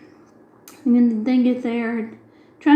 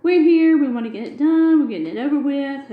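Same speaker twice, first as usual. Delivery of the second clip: louder, higher, firm refusal to leave; telling the clerk we're staying, louder and emphatic; determined; 5 semitones higher, 5 dB louder than usual. Retold or imitated. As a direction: plant your feet, we're not leaving. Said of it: "We're like".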